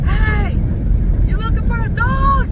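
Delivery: high mock shout to the neighbors; retold call out. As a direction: call out down the street, lightly imitated. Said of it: "Cody goes out there and goes".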